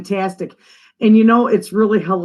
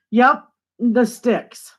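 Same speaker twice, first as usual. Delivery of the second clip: drawn-out sticks; 2 semitones higher, much slower than usual. Shown as a demonstration. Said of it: "We call that the sticks".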